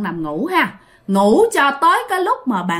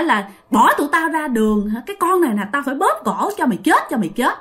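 mildly angry, higher-pitched scolding; retold ghostly threat, pitched up and insistent; angry spirit; 5 semitones higher than usual. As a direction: act out an indignant spirit's tirade. Possessing spirit rages, threatening to kill.

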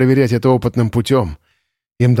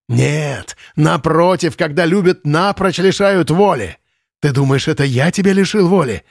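frenzied retort; 4 semitones higher than usual. Acted. Lenz answers in frenzy.

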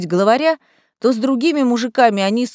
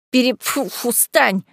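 sputtering through a faceful of slime; snorting and spitting mid-word; 2 semitones higher than usual. Acted. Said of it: "зафыркал он, отплёвываясь от тины".

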